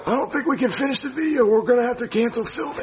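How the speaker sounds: raspy strained voice; hoarse voice. Real, not acted. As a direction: speak through a worn-out throat. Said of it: "Why does it sound like that".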